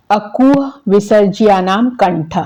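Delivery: slow, measured chant of the rule; teacher reciting a Sanskrit sutra; slow sutra recitation. Shown as a demonstration. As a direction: recite it word by word for memorising. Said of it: "तो ये सूत्र आप याद कर लीजिए".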